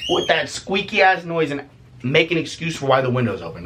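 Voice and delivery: ordinary talk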